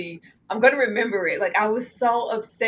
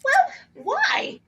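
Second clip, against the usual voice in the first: mock wail; much slower than usual. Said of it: "I was like".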